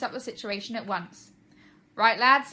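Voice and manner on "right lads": loud bellowed order. Acted. Fire chief bellows orders to his crew. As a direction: call the crew to attention. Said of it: "he bellowed".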